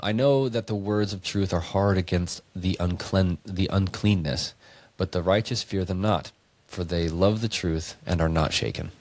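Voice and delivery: put-on measured, solemn reading of an old verse; scripture reading. Friend reading verses to a podcast co-host, solemn scripture read. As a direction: read it out like holy writ.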